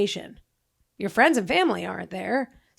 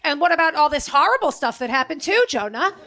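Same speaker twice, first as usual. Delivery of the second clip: nagging Jewish mom, pitched up and louder; guilt-trip it like a worried mother; 6 semitones higher, 4 dB louder than usual. Retold or imitated. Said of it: "It's so Jewish to be like".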